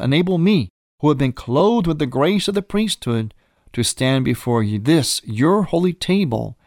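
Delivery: solemn, measured liturgical prayer; prayer recitation. Shown as a demonstration. Priest's prayer read aloud.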